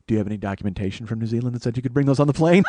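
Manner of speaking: fast, laughing gotcha line; gleeful laughing taunt. Retold or imitated. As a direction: fire the question, laughing at him. Taunting the wine guy.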